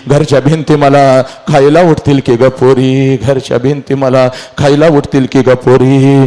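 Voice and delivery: acted mournful lament to a daughter; understated wailing grief; mother's wail. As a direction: plead with your departing child. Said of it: "त्या लग्न मंडपामध्ये पहिला हंबरडा".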